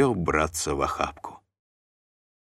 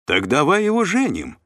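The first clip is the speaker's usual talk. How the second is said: higher, louder, eager exclamation; exclaiming; 12 semitones higher, 5 dB louder than usual. A narrator's reading. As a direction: seize on the idea at once. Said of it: "воскликнул мышата". (радостно воскликнув)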